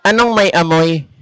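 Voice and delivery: a deep, dopey voice mishearing the name; low goofy character asking what smells; comic low mishearing voice. Acted. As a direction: drop low like a dim sidekick. Mishearing gag in other voice.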